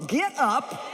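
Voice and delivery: ordinary delivery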